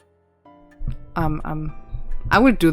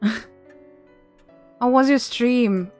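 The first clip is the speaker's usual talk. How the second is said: laughing; 5 semitones higher, 4 dB louder, much slower than usual. Real, not acted. Laughing, asking raider.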